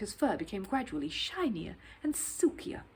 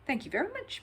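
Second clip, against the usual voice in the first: grateful; 10 semitones higher than usual. Acted. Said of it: "said Paddington gratefully".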